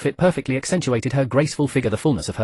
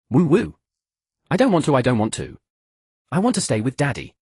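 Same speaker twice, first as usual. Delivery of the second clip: put-on crying child; 2 semitones higher than usual. A narrator's reading. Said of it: "began to cry".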